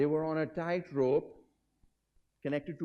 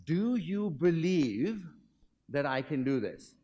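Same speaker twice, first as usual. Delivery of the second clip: slow, drawn-out showman's question; a lightly voiced daredevil, slow and deliberate; Blondin asking the crowd; 3 semitones higher, 3 dB louder, slower than usual. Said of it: "And the question is".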